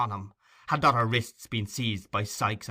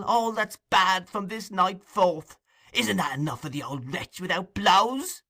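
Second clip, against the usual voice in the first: much higher, loud anguished cry; passionate cry; 10 semitones higher, 4 dB louder than usual. Acted. Nancy crying out passionately against Fagin. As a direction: cry out to heaven. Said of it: "cried the girl passionately".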